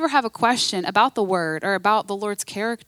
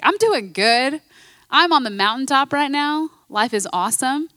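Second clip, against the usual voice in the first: a bright, louder, higher happy quote; cheerful mock boast; 4 semitones higher, 3 dB louder than usual. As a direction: play someone on top of the world. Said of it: "and you're like".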